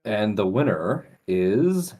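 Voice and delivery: slow, drawn-out announcer build-up; winner announcement. Pretend. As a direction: draw out the reveal to build suspense. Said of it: "I'll announce it".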